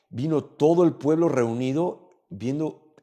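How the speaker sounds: usual speaking voice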